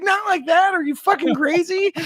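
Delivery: high, loud, exasperated shout; furious mom yelling. Retold or imitated. Wife yelling at her son in the truck, furious shout. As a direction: snap at him in disbelief. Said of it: "She's like".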